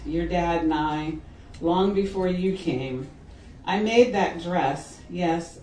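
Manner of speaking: even, measured recital, falling line ends; poem reading. Acted. Poet recalling glamorous days to her child, measured poem reading. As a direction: read it as verse, pausing after each phrase.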